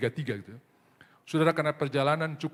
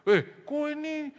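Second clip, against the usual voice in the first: retold quarrel; 13 semitones higher, 4 dB louder, slower than usual. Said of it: "saya pernah berantem".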